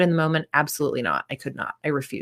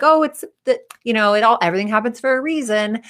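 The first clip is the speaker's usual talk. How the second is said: mock platitude; 4 semitones higher than usual. Mocking unhelpful platitudes.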